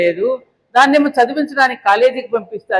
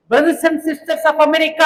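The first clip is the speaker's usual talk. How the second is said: Vivekananda's greeting; 5 semitones higher, much slower than usual. Retold or imitated. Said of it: "అని వివేకానందుడు పిలవగానే".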